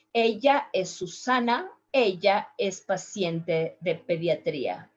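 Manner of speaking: Ella with a soft gliding y, soft accent; soft-accent Spanish demo, "eya". Shown as a demonstration. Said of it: "Let me do with a soft accent".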